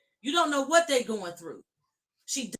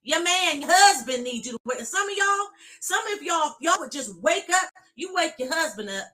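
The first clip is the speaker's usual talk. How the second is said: preaching at full force; 3 semitones higher, 4 dB louder than usual. Real, not acted.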